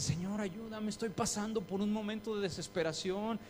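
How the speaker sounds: quick, pleading vows that speed up; half-mock desperate praying; hasty promises. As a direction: rush the promises to God. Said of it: "le dices".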